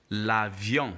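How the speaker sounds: l'avion said in French, la-vyon with nasal ending; "l'avion" as la-vyon, nasal final vowel; French model pronunciation. Shown as a demonstration. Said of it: "Can you repeat?".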